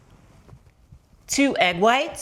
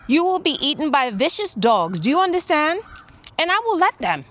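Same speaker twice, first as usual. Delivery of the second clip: scolding the dog; 5 semitones higher than usual. Real, not acted.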